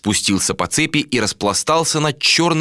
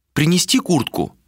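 higher, lightly voiced female question; a hint of a woman's voice, asking higher; 9 semitones higher than usual. A narrator's reading. Malika offers a jacket, lightly voiced higher woman.

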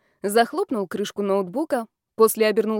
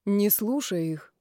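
soothing; 4 dB quieter, slower than usual. Acted. Groom comforts his crying bride.

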